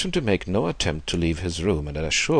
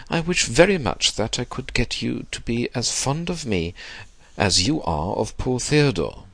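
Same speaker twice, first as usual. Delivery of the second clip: put-on old gentleman's higher-pitched wish; wistful old man; 6 semitones higher than usual. Old man wanting Max's fondness, high and wistful. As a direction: plead gently with pitch raised. Voices Mister Sloane in narration.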